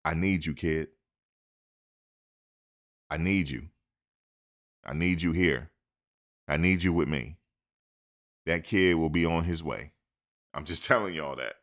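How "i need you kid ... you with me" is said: lightly voiced sincere coach, a touch softer; understated heartfelt appeal; Coach Prime's plea. Coach Prime earnestly telling a recruit he needs him. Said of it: "for a Hall of Famer to tell a kid he need him".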